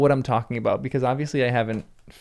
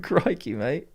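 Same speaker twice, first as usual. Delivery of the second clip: put-on Australian accent; 3 dB quieter, slower than usual. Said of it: "in an Australian accent".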